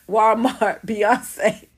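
Walmart Beyonce drawn out very slow, Walmart stretched; savoring the nickname. Retold or imitated. Repeating a fan's nickname for the singer, slow and savoring. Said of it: "she called her Walmart".

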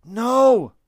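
put-on young boy yelling to save the deer. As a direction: scream it to stop the shot. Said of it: "the young boy yelled".

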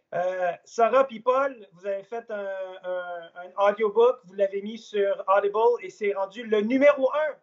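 the sentence said in his own Québécois French, unhurried; Québécois accent. Shown as a demonstration. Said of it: "Non, en québécois".

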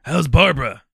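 woman's voice. Pretend. Playing an old lady.

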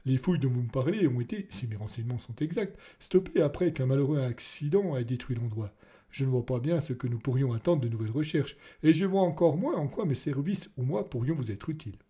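a lightly voiced nervous official, stammering at first; ill-at-ease ministry official facing Nief, hesitant. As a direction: stumble in, then talk awkwardly. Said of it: "à ses hésitations dans la voix".

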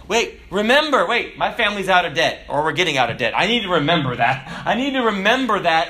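acted sudden alarm, pushed loud; urgent self-reminder. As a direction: catch yourself and insist on it.

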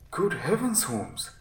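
high, loud burst of protest, then dropping; indignant exclamation. Acted. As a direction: exclaim in shocked disbelief.

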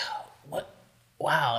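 whispering. Retold or imitated. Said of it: "He's like".

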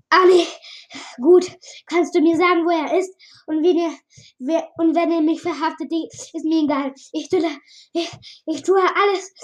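scared stranger begging the villagers to let him stay; Mike begging. Acted. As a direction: beg not to be sent away, breathless with fear. Voices Mike, begging frantically.

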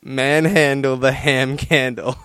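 slow, deliberate reading of each word; said slowly. Shown as a demonstration. Reading a favourite euphemism to listeners, slowly and deliberately. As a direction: savour every word, slowly. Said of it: "I'm gonna say this shit slowly".

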